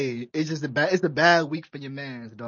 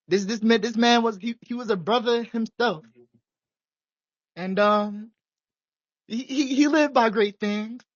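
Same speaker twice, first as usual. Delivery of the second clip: preached mock eulogy. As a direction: preach it like a faltering pastor at a funeral. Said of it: "The way you just preached that sermon, the eulogy".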